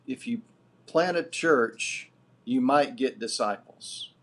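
quoting a slogan with slow weight on "plant"; stress on plant. Retold or imitated. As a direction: lean hard and slow on "plant a church" to set up the contrast. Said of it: "would say".

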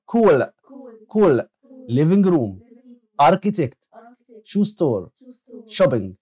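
word-by-word dictation with pauses between items; vocabulary drill. Shown as a demonstration. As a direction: model each word clearly for pupils to repeat. Models vocabulary for class to repeat. (نطق الكلمات للتلاميذ ليرددوها كلمة كلمة)

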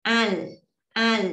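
"Al" said slowly and clearly with a firm L at the end; demo pronunciation. Shown as a demonstration. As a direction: sound out "Al", ending crisply on L. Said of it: "sẽ đọc là chữ L nè".

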